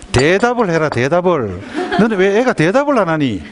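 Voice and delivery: acted exasperation at a silent child; impatient mother. Mother scolding her child for not answering, impatient nagging.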